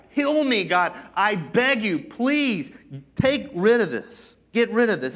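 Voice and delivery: loud, high begging cry to God; desperate plea. Acted. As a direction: plead with everything you've got. Paul's desperate pleading voiced.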